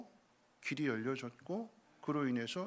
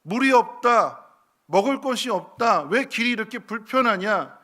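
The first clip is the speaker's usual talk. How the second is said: loud, high angry grumbling; complaining crowd; 7 semitones higher, 14 dB louder than usual. Acted. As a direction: shout the people's complaints. People complaining, quoted. (백성들의 불평을 화난 목소리로 크게 외치듯)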